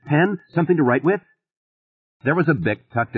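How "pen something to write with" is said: pleading. A narrator's reading. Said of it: "he pleaded".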